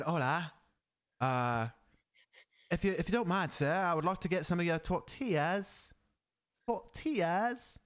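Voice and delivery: lightly put-on British accent; polite Brit ordering in a store; mock British customer, mispronouncing Spanish. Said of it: "a British accent".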